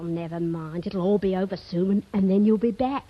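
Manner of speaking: ordinary talk, nothing marked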